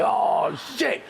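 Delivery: high, drawn-out curse; panicked dismay. Retold or imitated. Man realising he wet himself, dismayed. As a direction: let the dismay stretch out.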